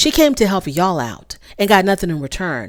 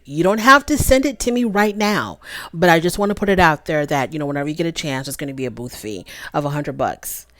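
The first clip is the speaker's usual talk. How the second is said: polite; 3 semitones lower, 3 dB quieter than usual. Pretend. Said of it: "be like".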